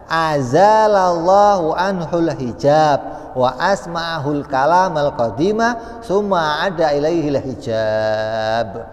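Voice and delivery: slow, measured reading of Arabic text; Arabic recitation. Acted. Preacher reciting Arabic text to the congregation, slow and measured. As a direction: intone the kitab passage.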